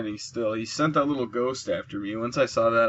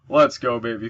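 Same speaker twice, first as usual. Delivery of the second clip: excited; 5 dB louder than usual. Real, not acted. Celebrating the kill.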